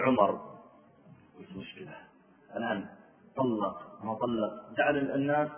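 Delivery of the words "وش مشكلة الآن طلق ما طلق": worried whisper. Retold or imitated. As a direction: murmur it anxiously.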